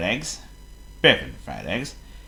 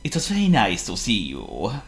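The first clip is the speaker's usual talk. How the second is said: polite. Acted. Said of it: "replied Mister Fuzzy politely".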